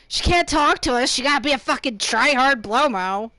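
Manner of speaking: loud mock griping; mock complaining viewer. Viewers complaining she can't talk to them, mock griping. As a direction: gripe loudly, imitating an annoyed viewer. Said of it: "it's like".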